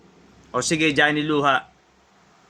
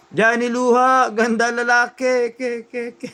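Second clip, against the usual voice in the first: mock echo effect; 6 semitones higher than usual. Shown as a demonstration. Teacher imitating the echo effect to students, mock repeating echo. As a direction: mimic a mixer's repeat effect, last syllables dying away. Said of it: "ito pala yung repeat".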